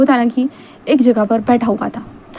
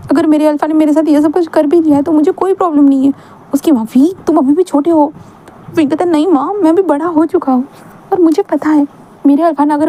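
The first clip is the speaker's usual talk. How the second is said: put-on young Wing, pleading; 4 semitones higher than usual. Wing defends his alpha to mother.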